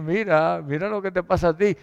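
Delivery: fast, lightly mocking jab; a hint of a spiteful rival; quick mocking taunt. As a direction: rub it in quickly. Penina taunting Ana.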